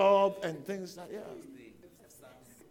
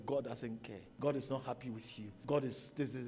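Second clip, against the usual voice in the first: voicing Satan; 10 semitones lower, 8 dB quieter than usual.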